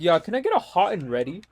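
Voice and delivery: lightly mimicked casual order, quick with rising end; mimicked customer. Mimicking customers at Little Caesars.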